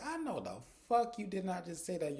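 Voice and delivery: high, indignant disbelief with fuck stressed; indignant husband. Retold or imitated. Husband hearing his wife say she's alone, indignant high disbelief. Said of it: "He said".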